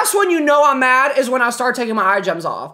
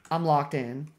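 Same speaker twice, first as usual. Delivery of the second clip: murmured focus; 9 semitones lower, 9 dB quieter than usual. Real, not acted.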